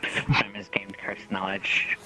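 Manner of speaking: slow unvoiced hushed announcement; slow whisper. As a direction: whisper it slowly, drawn out.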